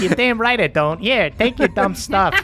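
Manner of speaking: put-on high, bratty teenage kid talking back; mouthy teen. Teen kid talks back to his mom, high and bratty.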